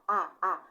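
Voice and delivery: "A, a" em dois golpes de ar separados; passagem de ar. Shown as a demonstration. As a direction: solte cada "A" num sopro de voz isolado. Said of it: "A passagem de ar". ("A, a" demonstrado, um golpe de ar por vogal)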